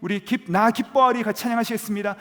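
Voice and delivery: high, loud and upbeat song leader; cheerful worship leader. Retold or imitated. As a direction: hype the crowd into praise. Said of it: "찬양을 시작하는". (신나게 찬양을 시작하는 간사 목소리)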